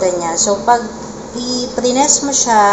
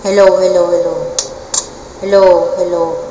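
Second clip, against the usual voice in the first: electro voice effect; 2 semitones lower, 3 dB louder than usual. Shown as a demonstration. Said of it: "So, electro".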